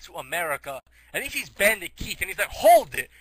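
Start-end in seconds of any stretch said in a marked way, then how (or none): 2.5-3.1 loud, high challenge; commanding shout. Retold or imitated. Bandit Keith stopping the traveler, loud mock-commanding shout. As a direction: halt them with a hammed-up yell.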